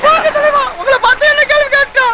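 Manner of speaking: very high, wailing complaint; comic crying. Acted. Sidekick crying to his boss over her question, high wail. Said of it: "ஏன் அழுகுற?".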